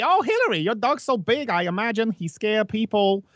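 high-pitched mock Asian accent; imitated Asian accent. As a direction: exclaim in a put-on Asian accent. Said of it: "she has that accent".

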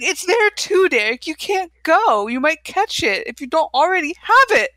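hammed-up worried girlfriend; mock scolding girlfriend. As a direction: warn him off, a little frantic. Casey scolding Derek.

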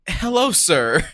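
put-on polite greeting in Spanish accent. Teammate approaching player with offer, in Spanish accent. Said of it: "Please talk in that accent".

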